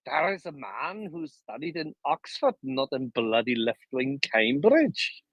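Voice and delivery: a hint of a Jamaican accent, slowing at the end; lightly put-on Jamaican lilt; mock Jamaican accent. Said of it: "Why do you always do a Jamaican accent".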